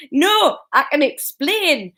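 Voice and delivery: high, slow nervous squeak. A narrator's reading. Husband caught by wife, squeaking nervously. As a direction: squeak it out like a cornered man. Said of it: "Norman squeaked".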